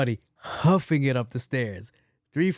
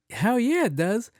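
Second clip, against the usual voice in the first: excited; 10 semitones higher than usual. Retold or imitated. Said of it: "I was like".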